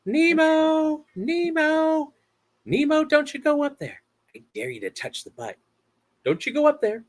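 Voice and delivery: high, anxious fish dad calling; Finding Nemo impression. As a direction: call out high and worried. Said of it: "that is my Finding Nemo impression".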